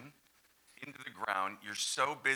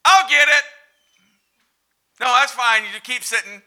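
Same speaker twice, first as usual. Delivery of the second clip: much higher, louder passive-aggressive offer; martyred Martha; 12 semitones higher, 16 dB louder than usual. Acted. Martha refusing help from sitting guests, martyred. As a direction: bitterly insist you'll do it. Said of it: "We can all relate to Martha".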